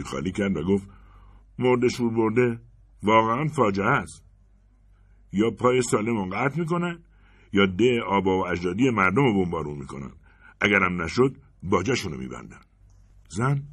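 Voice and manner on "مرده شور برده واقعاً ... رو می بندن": mock outrage. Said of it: "از دست تحویلدار جوش آورده بود".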